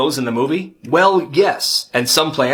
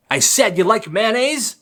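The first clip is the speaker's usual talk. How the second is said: higher, insistent repeat of mayonnaise; pressing threat; 6 semitones higher than usual. Acted. Angry dad presses Greg again about the mayonnaise, insistent. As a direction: lean on "mayonnaise" like an interrogator.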